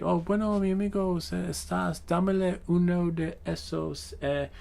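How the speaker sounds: mock Spanish order. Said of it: "And they're like".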